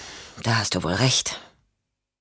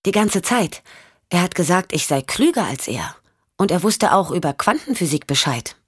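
put-on a slightly higher little-girl voice; lightly voiced young girl; 4 semitones higher than usual. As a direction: lightly play a child talking about her father. (leicht angedeutete Mädchenstimme)

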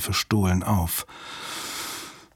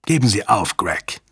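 calm. A narrator's reading. Commander telling the hostage-taker to give up, calm. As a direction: urge surrender calmly, without raising the voice. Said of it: "sagte Strathmore mit ruhiger Stimme".

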